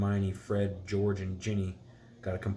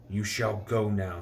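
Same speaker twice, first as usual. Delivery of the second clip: fierce; slower than usual. Acted. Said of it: "he said fiercely".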